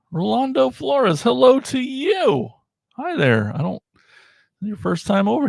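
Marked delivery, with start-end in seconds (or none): 0.1-3.5 much higher, bright sing-song welcome; higher, slower, beaming hello to a chat viewer; excited greeting. Real, not acted. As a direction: call out a viewer's name with delight.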